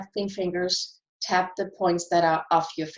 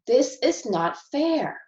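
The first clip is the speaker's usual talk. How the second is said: higher, slow, "not fair" said with fed-up emphasis; frustrated complaint; 5 semitones higher, slower than usual. Shown as a demonstration. Tapping coach voicing frustration, slow and higher. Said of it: "I'm gonna start with some frustration".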